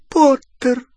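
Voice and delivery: high, loud shriek of the name. A narrator's reading. Bellatrix learns it is Potter, shrieking. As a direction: shriek it out in alarm. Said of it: "взвизгнула Беллатриса".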